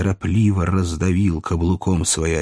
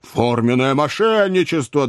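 higher-pitched indignant exclamation; indignant accusation; 6 semitones higher than usual. Acted. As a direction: chime in with outrage. Bob Sawyer joins accusation.

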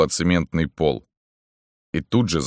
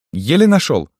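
high, loud henchman's voice; high-voiced underling reporting in; henchman Zhora; 11 semitones higher, 6 dB louder than usual. A narrator's reading. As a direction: call it from the doorway, pitched way up.

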